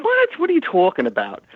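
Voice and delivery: a high, startled "What?"; a jump in pitch on "What?", in disbelief; retold surprise. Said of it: "So I'm like".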